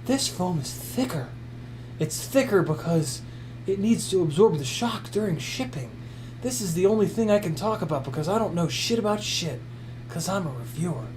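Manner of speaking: lightly voiced clueless gadget reviewer, mostly his own voice; a hint of a know-nothing reviewer, deadpan; parody YouTube reviewer. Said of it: "I'm impersonating YouTube reviewers".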